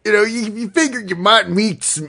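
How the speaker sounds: cowboy voice. Acted. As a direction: spin a yarn like an old cowboy. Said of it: "why is he talking like this".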